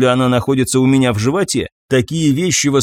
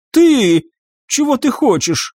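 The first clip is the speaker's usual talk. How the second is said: angry banshee; 11 semitones higher than usual. Acted.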